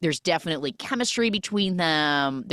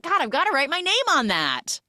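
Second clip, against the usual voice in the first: mock annoyance; 11 semitones higher than usual. Acted annoyance over taken lighter.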